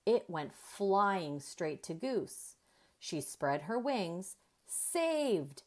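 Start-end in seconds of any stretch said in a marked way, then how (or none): 4.6-5.6 bright, high cry of Saved!; thrilled little turtle yelling; excited shout. A narrator's reading. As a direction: cheer the save. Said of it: "Franklin shouted".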